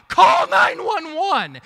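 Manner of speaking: "Call nine one one!" yelled high, loud and slow; retold shout for help. Pastor retells wrestling a brawler and yells for help: slow, loud shout. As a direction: shout it out while holding back a fighter's arm. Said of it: "screaming out".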